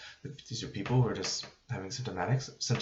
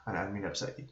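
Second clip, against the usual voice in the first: mildly soothing, conciliatory tone; de-escalating; 2 semitones lower than usual. Shown as a demonstration. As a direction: gently talk down an upset patient. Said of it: "Kind of pivot into that de-escalation".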